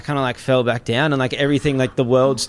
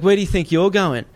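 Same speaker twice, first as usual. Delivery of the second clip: higher-pitched mock threat; confronting challenge; 6 semitones higher, 3 dB louder than usual. Captor challenges the drugged man trying to leave, confronting. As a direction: imitate someone blocking an escape. Xander challenges him as he crawls off.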